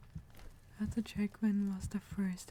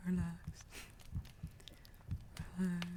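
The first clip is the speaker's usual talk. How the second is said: relaxed tone; 6 dB quieter than usual. Shown as a demonstration. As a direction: ease down into calm. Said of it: "The relaxed one".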